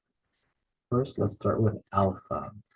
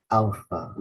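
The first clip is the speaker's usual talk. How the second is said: "alpha" stressed on AL, falling away; first-syllable stress. Shown as a demonstration. Teacher showing the stress mark, "alpha" as AL-pha. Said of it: "We put the stress in the first syllable".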